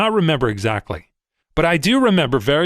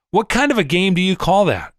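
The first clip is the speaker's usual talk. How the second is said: higher, choked angry demand; so mad; 6 semitones higher than usual. A narrator's reading. Furious Wolf accusing the trader, choking with anger. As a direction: barely get the words out for rage. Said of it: "He was so mad by now".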